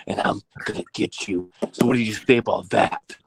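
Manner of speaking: lightly voiced jealous rival, mostly low; a hint of a sulky Dinky, dropping low on the threats; role-playing Dinky. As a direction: friend plays the jealous Dinky with only a light shift from his own voice. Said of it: "Go ahead, be Dinky".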